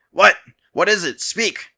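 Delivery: demanding. A narrator's reading. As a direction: hurry the messenger, barking an order. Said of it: "the king demanded".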